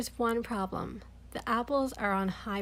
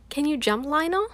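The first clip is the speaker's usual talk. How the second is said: calling up; 6 semitones higher, 5 dB louder than usual. Acted. Calling up to boy in tree.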